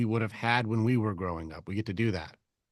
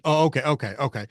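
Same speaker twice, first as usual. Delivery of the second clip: raised, loud string of okays; tone escalating; 3 semitones higher, 4 dB louder, faster than usual. Shown as a demonstration. Coach replaying his changed tone for Nigel, higher and louder. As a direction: get worked up on each okay. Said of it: "You saw it got like".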